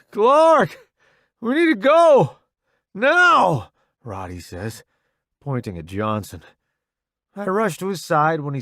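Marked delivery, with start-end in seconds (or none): 0.1-3.7 loud, high urgent call; urgent shout. A narrator's reading. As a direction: yell to get him moving. Urgent call under fire.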